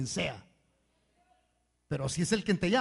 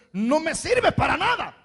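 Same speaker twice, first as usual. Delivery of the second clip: mock dismissive; 9 semitones higher, 10 dB louder than usual. Voicing a dismissive person.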